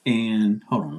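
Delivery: talking while chewing; mouth full. Real, not acted. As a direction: speak through a mouthful. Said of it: "let me finish chewing this".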